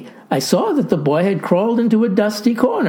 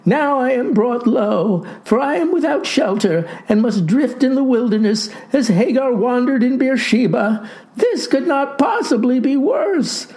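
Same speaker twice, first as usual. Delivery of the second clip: wailing; 7 semitones higher than usual. A narrator's reading. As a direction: wail it pitifully, voice raised high. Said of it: "wailed the boy".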